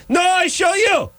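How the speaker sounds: slow, very high mock Israeli woman; insistent caricature of an Israeli neighbor; horrible Israeli accent. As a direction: drag it out in a falsetto Israeli accent. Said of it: "It's a horrible accent".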